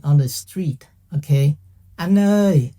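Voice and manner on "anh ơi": calling out. Retold or imitated. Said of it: "So they go like".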